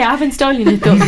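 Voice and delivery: laughing while talking. Real, not acted. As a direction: say it through a laugh. Teasing laugh to cohost.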